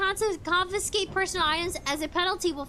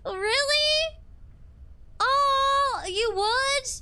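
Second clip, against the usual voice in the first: surprised; 7 semitones higher, much slower than usual. Real, not acted. Delighted reaction to chat message.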